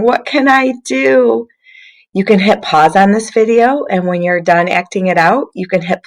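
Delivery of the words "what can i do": put-on a light, pitched-up show of sadness for kids; mock crying. Shown as a demonstration. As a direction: model a sad, crying little stick. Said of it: "Pretend like you're really sad and crying".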